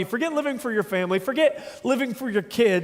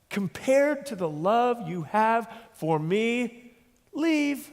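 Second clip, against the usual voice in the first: voicing Jesus; much slower than usual. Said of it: "He says, he has the audacity to say".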